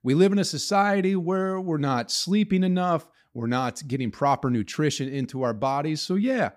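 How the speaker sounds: upbeat podcast ad read. Acted. Host reads a sponsor ad to listeners, upbeat. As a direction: sell it like a friendly sponsor spot.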